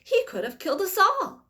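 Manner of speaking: high, loud shrill outrage; screaming old woman. A narrator's reading. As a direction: shriek at the crazy man. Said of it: "screamed Grandma Josephine".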